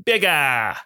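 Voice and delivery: hammed-up Cockney with pauses between phrases; Cockney-skewed impression. The speaker urging Bradley on over FaceTime, in hammed-up Cockney. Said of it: "skewing a little bit Cockney".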